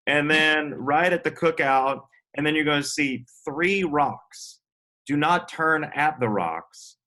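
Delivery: imitating a local giving directions. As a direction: spell out each landmark slowly. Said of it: "People would be like".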